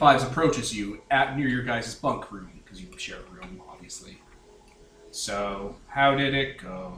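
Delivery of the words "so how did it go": low, slow monotone soldier voice. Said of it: "I don't even think he talked like that".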